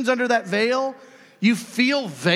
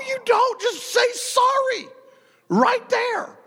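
insistent; slower than usual. Real, not acted. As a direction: cut them off and insist, slowly. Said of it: "preacher insisting".

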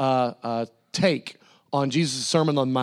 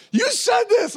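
high mock-accusing voice, pitched way up; mock accuser; 3 dB louder, slower than usual. Preacher mimics people calling out his words. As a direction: squeak it out like an accuser pointing a finger.

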